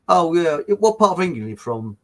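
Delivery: imitating a Cockney bloke, lightly; a hint of broad London Cockney; Cockney accent. Egyptian shopkeeper in Greece greeting an English tourist, light Cockney accent. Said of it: "In a real Cockney accent".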